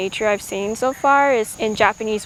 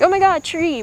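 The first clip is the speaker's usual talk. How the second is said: excited gasp; 8 semitones higher, 4 dB louder than usual. Retold or imitated. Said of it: "You don't just be like".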